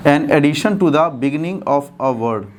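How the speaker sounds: slow, deliberate, in one continuous phrase; joined-up dictation. Shown as a demonstration. Teacher repeating the definition for students, slow and joined up. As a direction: read the definition through slowly without long breaks.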